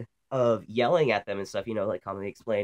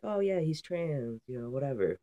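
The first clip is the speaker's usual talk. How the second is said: light imitation of a shrugging friend; imitating friend; 5 semitones higher, 4 dB quieter than usual. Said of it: "my friend was just like".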